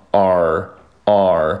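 "R" as the reduced form of "our", one drawn-out syllable; slow demo of weak "our" sounding like "R". Shown as a demonstration. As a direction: say "R" slowly for a weakened "our", three separate times. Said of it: "这个hour会进行一个弱读".

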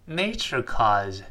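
slow model reading. Shown as a demonstration. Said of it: "他说".

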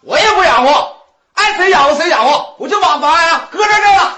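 defiant shout. Acted. Brother-in-law dumps mother in quarrel.

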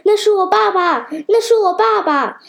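high, loud shocked scream; a boy shrieks as he spots his father's boat. A narrator's reading. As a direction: cry out at the sight of father. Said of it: "尖叫道".

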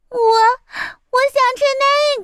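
put-on high, sniffly child stammer; pleading little chick. A narrator's reading. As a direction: point and beg like a little kid. Chick wants the fruit.

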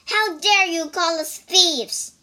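shouted. A narrator's reading. Bajie answering the priest's accusation, indignant shout. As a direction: bristle back at the insult. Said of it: "shouted Bajie".

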